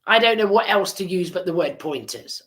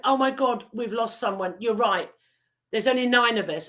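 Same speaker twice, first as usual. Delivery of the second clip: mildly raised, shocked; mock alarm; 4 semitones higher than usual. Boy admitting to his friends, mild alarm. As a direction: play the realisation lightly.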